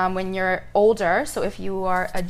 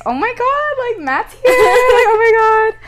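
excited; 14 semitones higher, 9 dB louder than usual. Retold or imitated. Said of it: "And I was like".

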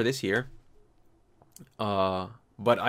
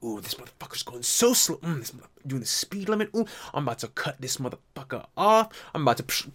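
impatient driver; 3 semitones higher than usual. Retold or imitated. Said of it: "some guy's just in his car, just like".

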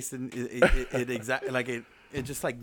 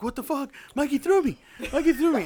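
imitating Tom; 12 semitones higher than usual. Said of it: "He's like".

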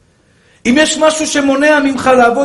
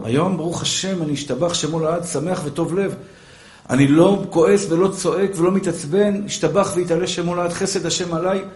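softer, pious calm, a touch ironic; mock serene; 4 semitones lower, 6 dB quieter than usual. Preacher mocking himself as a serene soul. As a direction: play the saintly calm man.

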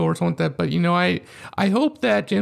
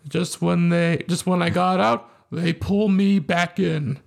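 Pacino impression; slower than usual. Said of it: "in Godfather Part Three".

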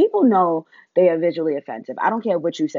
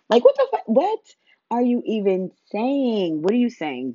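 sudden high disbelieving shriek; incredulous outburst; 5 semitones higher than usual. Real, not acted. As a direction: shoot up high in shock. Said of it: "outraged reaction".

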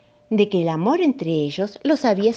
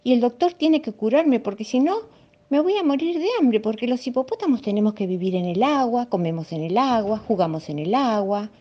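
higher, worried hippo voice; 6 semitones higher than usual. Acted. Hippo explaining his fear of water, voiced higher and worried. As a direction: fret about starving out of water.

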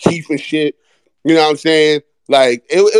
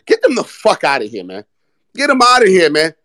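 gloating send-off; 3 semitones higher than usual. Real, not acted. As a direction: shoo the Pacers off the court. Celebrating win over Pacers.

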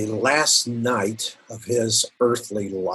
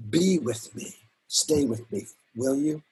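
quiet plea; 5 dB quieter than usual. Retold or imitated. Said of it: "he asks for his friends".

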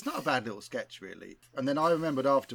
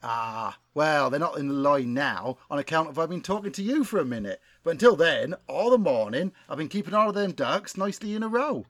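put-on West Country accent; 2 semitones higher than usual. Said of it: "best West Country accent".

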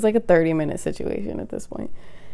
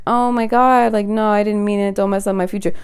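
higher-pitched imitation of their protests; mock pleading; 4 semitones higher than usual. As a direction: plead it like them, mockingly. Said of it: "you be the first ones to be like".

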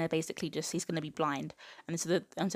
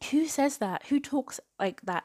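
incredulous; 8 semitones higher, 3 dB louder than usual. Real, not acted. Incredulous at the book's dialogue.

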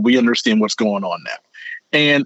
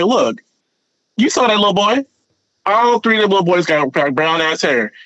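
higher, mock-indignant queen pleading her case; hammed-up outraged Alicent, higher pitch; exasperated queen; 7 semitones higher than usual. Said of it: "she's like".

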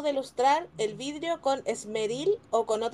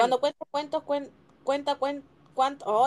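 quicker go at a tongue twister; faster attempt. Shown as a demonstration. Player shows friends she can say it faster, quick attempt. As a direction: try to rattle it off. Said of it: "yo lo digo más rápido".

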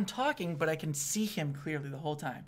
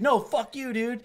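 raised, higher comeback; mock indignant snap; retold angry retort; 6 semitones higher, 4 dB louder, slower than usual. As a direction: fire back at the heckler. Comic retorts to heckler, retold quarrel.

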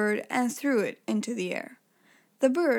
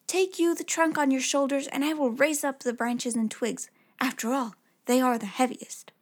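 lightly voiced sly little tailor. Tailor voiced tricking giant.

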